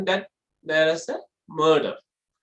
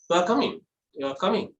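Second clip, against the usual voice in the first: "You are coming" with no emotion; flat intonation; faster than usual. Shown as a demonstration. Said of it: "It's a flat".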